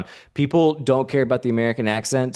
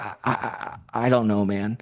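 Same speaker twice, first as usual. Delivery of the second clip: acted flustered stammer. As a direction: stammer sheepishly under pressure. Acts his cowed stammering reply.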